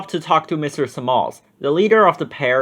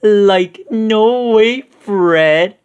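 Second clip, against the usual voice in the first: high, loud panicked Shaggy; Shaggy's cry; 6 semitones higher, 6 dB louder, much slower than usual. A narrator's reading. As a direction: refuse in a scared cartoon wail. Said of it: "cried Shaggy".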